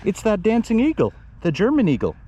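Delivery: high-pitched mock German accent. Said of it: "I did wrong accent".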